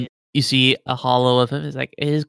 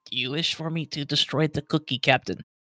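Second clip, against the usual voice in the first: soft, hushed half-whisper; 8 dB quieter than usual. A game narrator voices Jormungandr speaking to the captain, Jormungandr half-whispering. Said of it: "hear Jormungandr's voice whisper".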